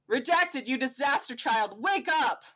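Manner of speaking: comic caption yell. Acted. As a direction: shout it like a rude alarm. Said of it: "in white text it says".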